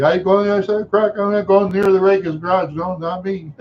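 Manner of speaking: high, fast insistent declaration; his younger self. Retold or imitated. Boy tells everybody he avoids the garage, high insistent voice. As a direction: rattle it off high, wanting no part of it. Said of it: "then I tell everybody".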